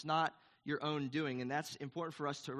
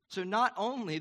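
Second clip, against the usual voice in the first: loud, higher burst of delight; can't contain how cool it is; sudden excited exclamation; 6 semitones higher, 6 dB louder than usual. Real, not acted. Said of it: "this is so cool".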